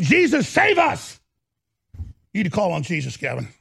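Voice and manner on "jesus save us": mock plea. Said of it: "I'm saying".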